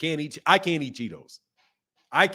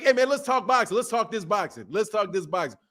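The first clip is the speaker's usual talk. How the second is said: his catchphrase; 4 semitones higher than usual. Shown as a demonstration. Host proudly giving his own catchphrase to the chat. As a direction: sell the motto like a trademark. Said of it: "That was my inner Negro".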